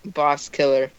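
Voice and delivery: drowsy, nodding off; sleepy, dragging words; half asleep. Real, not acted. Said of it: "I'm ha-, half asleep".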